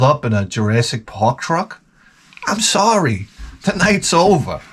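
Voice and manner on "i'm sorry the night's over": higher-pitched dismissive brush-off; mock rejection. A woman turns down the Jurassic Park driver, mock rejection. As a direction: call the date off, playfully indignant.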